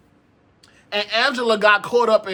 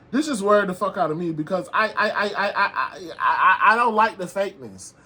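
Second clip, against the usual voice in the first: stammering through laughter; flustered giggling stammer; nervous laughing. Real, not acted. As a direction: laugh while tripping over words.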